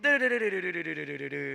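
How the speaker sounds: steady spoken drum strokes; vocal drum pattern. Shown as a demonstration. Showing the band the three-syllable pattern, spoken drum beat. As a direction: count the rhythm out as drum hits. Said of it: "ดับเบิลสโตรก สามพยางค์ จัดไป".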